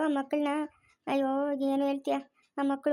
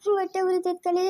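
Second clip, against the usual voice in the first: crying plea. Acted. Pleading wife begs husband.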